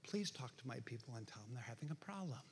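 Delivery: soft, low and meek; mock mild request. Preacher mimicking how the prophet shouldn't address God's people, mock-gentle. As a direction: play the timid messenger, barely raising your voice. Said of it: "Don't go".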